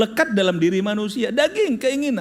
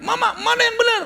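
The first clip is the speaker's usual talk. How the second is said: put-on child yelling; 13 semitones higher than usual. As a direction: yell for mum, much higher than usual. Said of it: "dia teriak".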